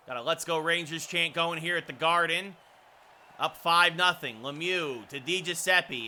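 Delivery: measured hockey call; play-by-play. Real, not acted. Announcer calls Coyle versus Hedel face-offs, measured play-by-play. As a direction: announce the face-offs evenly, following the puck.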